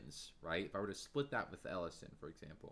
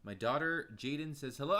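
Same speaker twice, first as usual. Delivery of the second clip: ordinary delivery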